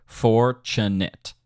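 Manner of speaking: "Fortunate" slowly, syllable by syllable, FOR on the downbeat; downbeat heavy. Shown as a demonstration. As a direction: stretch out "Fortunate" with weight on FOR. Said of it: "Very downbeat heavy for sure".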